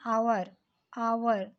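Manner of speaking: आवर begun on "aa", with silent H; vowel-like opening. Shown as a demonstration. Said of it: "vowel type से उच्चारण आ रहा है".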